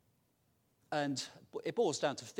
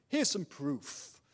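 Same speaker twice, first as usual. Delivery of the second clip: booming voice from sky; 4 dB louder, much slower than usual. Acted. God answers Moses.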